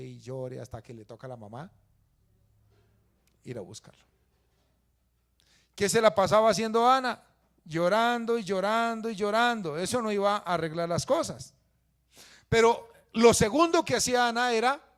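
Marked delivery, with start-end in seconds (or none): 5.7-14.8 loud, high sermon delivery; preaching at full force. Acted. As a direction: proclaim the verse to the whole church. (predicación a todo pulmón)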